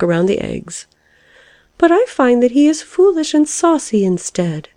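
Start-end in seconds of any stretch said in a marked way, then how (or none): 1.8-4.7 high, huffy complaint; put-out caterpillar. A narrator's reading. Caterpillar left behind by the lark, mildly put out.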